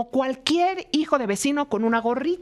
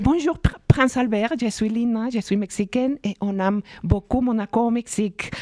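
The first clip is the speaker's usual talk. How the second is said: put-on speaking French with a Mexican accent. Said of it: "dilo en francés, como lo dijiste".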